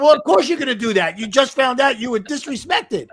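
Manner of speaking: lightly voiced listener siding with him; indignant agreement. Listener backing him after the snub, mildly indignant.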